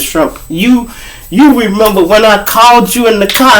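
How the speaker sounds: high imitation of a woman friend; woman's voice. Retelling his lady friend, high woman's voice.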